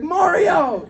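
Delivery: high-pitched heckling call; mock holler. Lady will not stop heckling him, mock holler. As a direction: call it out high, stretching the name. Imitates lady repeatedly calling across train.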